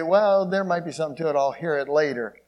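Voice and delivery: quick, offhand shrug of a doubter; lightly voiced skeptic, a bit fast; doubter's voice. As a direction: toss it off like someone putting it off. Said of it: "Some say".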